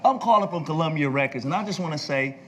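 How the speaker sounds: high, emphatic mock executive; exasperated caller. Record executive phones persistent young promoter, exasperated caller. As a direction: imitate a worked-up caller, measured out phrase by phrase.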